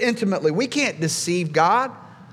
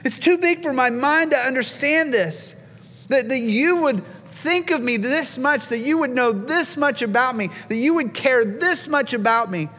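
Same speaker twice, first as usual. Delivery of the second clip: awestruck; 5 semitones higher than usual. Retold or imitated. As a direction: voice David overwhelmed by it all. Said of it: "he's just blown away".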